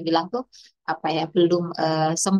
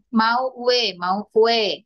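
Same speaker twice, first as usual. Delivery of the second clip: put-on toddler asking; much slower than usual. Shown as a demonstration. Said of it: "misalkan gitu ya".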